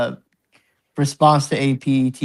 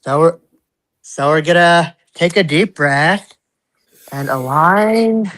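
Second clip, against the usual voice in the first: soothing yoga teacher. Pretend. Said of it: "put on my gay yoga teacher voice".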